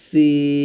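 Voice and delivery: সিন light and thin; Arabic letter demo. Shown as a demonstration. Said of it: "আর এটা হবে". (সিন পাতলা করে উচ্চারণ)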